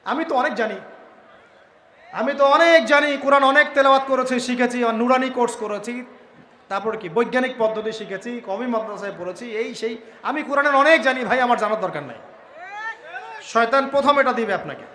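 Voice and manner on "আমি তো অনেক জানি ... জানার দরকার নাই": mild mock know-it-all boast; smug boast. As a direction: lean on অনেক to show off the know-it-all. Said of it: "এসে বলবে".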